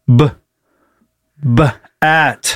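b- b- at, slowly blended; sounding out bat; sounding out words. Real, not acted. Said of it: "seg-, what?".

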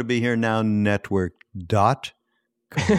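dot held out before a pause and com; stress on DOT. Pretend. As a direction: playfully lean on dot, then wait before com. Playful callback to stressed dot.

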